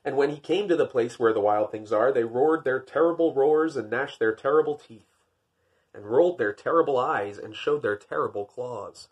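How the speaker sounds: lightly dramatic read-aloud; reading to an audience; storybook narration. A narrator's reading. Reads the picture book aloud.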